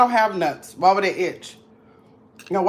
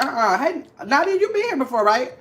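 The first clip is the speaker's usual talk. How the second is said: mock troll; 4 semitones higher than usual. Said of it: "These trolls was like".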